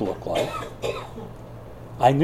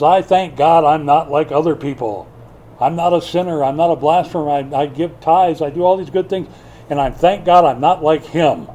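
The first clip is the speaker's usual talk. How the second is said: proud Pharisee; 4 dB louder than usual. Retold or imitated. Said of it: "The Pharisee lifts up his eyes".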